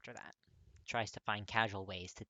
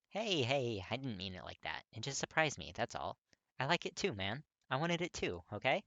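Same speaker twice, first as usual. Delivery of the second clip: higher and louder, eager to reassure; bright young guy earnestly comforting his friend; reassuring friend voice; 4 semitones higher, 5 dB louder than usual. Acted. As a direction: hurry to make him feel okay. Kirishima reassures Katsuki.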